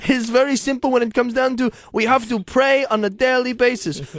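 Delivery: lightly put-on saintly voice; unplaceable saint voice. Saint teaching about prayer in a slightly odd put-on voice. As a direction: preach it a little high, affectedly. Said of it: "don't even know what voice this is".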